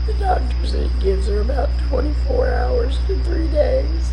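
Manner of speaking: high, loud tearful voice that keeps breaking; really crying while asking for prayers; upset and crying. Real, not acted. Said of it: "I'm sorry I'm upset on this video".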